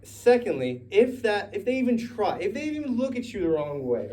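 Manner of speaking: high, loud protest; protesting shout. Acted. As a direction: shout him down in disbelief. Peter protests loudly to Jesus.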